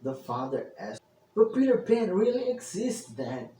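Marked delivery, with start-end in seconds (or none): 1.3-3.5 mild mock scream. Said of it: "the children screamed".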